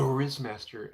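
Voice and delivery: loud, slow drawn-out title; grand mock announcement; announcing. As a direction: boom it out like a title. Announces persona as Riz Master.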